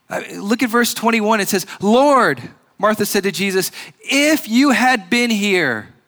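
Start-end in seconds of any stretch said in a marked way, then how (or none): 1.8-5.9 a touch of grieving Martha; mildly voiced pleading sister. Voicing Martha's plea.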